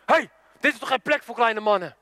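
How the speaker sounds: mild snap from a big brother; retold snapping. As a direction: snap dismissively at your little brother. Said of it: "die broer die snauwt". (licht snauwend nagespeeld)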